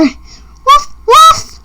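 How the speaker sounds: high, rising yappy woofs; excited dog bark. Pretend. Reading aloud, the dog yaps after a car with high woofs. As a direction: yip like a little dog chasing a car.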